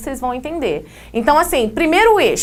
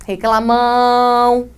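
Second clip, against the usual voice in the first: mock scolding of a grumbler; teasing drawn-out; much slower than usual. Teacher teasing a student who keeps complaining, drawn out. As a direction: stretch it out slowly, teasing the complainer. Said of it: "De novo".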